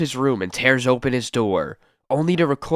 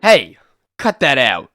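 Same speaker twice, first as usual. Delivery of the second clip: angry yell; 6 dB louder than usual. Acted. Thug hit in the fight.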